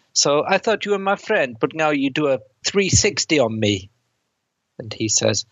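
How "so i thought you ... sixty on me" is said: lightly voiced mobster, pitched up at the start; a hint of a wounded gangster; mobster line. Retelling the mobster's line to his co-host, mildly voiced. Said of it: "where the mobster says".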